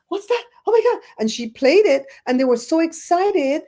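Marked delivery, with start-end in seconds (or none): 0.1-1.0 amazed Brits. Retold or imitated. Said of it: "they're like".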